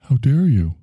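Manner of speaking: plain-voiced quote, no put-on; just says it the way the speaker would; quoting Greta. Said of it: "She just keeps saying".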